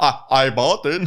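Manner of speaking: put-on German accent, very slow. Retelling a movie scene where the husband answers his wife: imitating a german accent. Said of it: "Avec son accent allemand".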